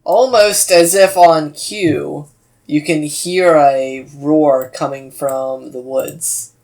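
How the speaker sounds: slow, drawn-out scene setting; game master narration. Acted. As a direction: narrate the woods slowly, building suspense.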